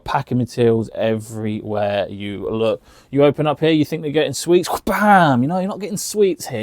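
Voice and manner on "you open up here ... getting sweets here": playful reveal. Acted. Playful reveal of packing drawer.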